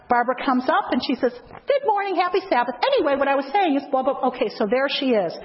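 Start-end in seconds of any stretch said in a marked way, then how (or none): 1.5-4.3 dismissive greeter. Retold or imitated. Greeter brushing off newcomer to chat, quick offhand hello. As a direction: toss off a greeting and turn away fast.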